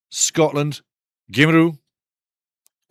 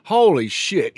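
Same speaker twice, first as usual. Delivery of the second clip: normal talking voice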